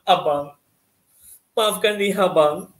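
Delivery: tearful drama-script plea, lightly acted; halting, mock-weepy apology with long pauses; lakonan menangis. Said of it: "Nangis cikgu, dia ingus". (lakonan sayu sambil menangis)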